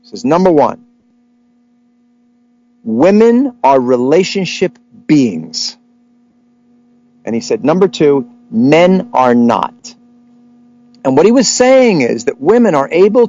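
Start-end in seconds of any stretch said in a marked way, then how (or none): 0.2-5.8 put-on slow rabbi pronouncement in a Jewish accent. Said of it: "with a deep Jewish accent". 7.6-9.9 imitated rabbi's Jewish accent, drawn out; slow Jewish-accented verdict from a rabbi. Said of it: "with a deep Jewish accent".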